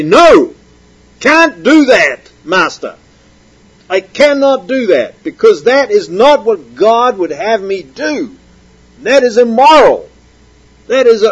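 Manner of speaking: lightly voiced slave standing his ground; slave refusing. Preacher voices a slave refusing his master an immoral order, firmly. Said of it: "he's gonna have to say".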